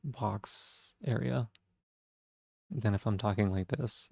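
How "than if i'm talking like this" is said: "talking like this" lower, softer, far back in the throat; lower throaty voice. Shown as a demonstration. Streamer showing chat the deeper, throaty placement. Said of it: "This is, like, a lower".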